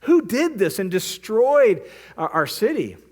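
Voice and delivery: mock aghast outrage at the burned fields. Philistines finding their crops burned, aghast and slowed. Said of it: "the Philistines are just aghast".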